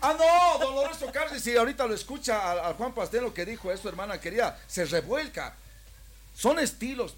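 mucho más alto y fuerte, indignado; exclamación exaltada. Real, not acted. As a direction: clama sobre lo que haría don Lorenzo. Exclama sobre reacción de Carri. (exaltado al hablar con el hermano de Carri)

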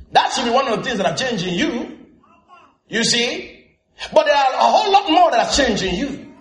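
lively sermon delivery; preaching. Real, not acted. Pastor preaching to the congregation, lively sermon delivery.

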